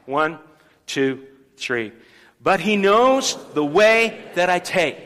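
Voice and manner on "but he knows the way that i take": slow, firm group recitation of the verse; leading the church in a slow spoken declaration; loud declaration. Shown as a demonstration. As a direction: declare it out like a creed. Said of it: "You're gonna say it loudly".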